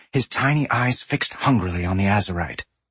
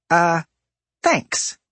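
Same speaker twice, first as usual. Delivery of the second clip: reluctant; 6 semitones higher, 3 dB louder than usual. A narrator's reading. Forced thanks to creep.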